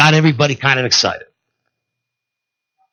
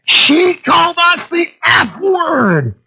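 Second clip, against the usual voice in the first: high, slow wailing shout; a teen girl's tearful howl way up high; whiny teen girls; much slower than usual. Retold or imitated. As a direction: wail it like offended teen girls. Girls whining to manager.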